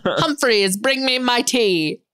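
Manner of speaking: posh lady ordering her butler; imperious plummy grande dame. Pretend. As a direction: command the servant grandly. Playing a lady calling butler.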